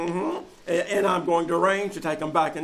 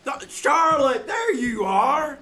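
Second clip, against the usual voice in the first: shouting; 6 semitones higher, slower than usual. Acted. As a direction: shout her name across the room. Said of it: "please do not shout".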